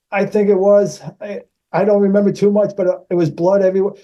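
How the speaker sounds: high, mock-earnest recollection; playful put-on. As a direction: pretend to recall your own death. Plays reincarnated son for co-star.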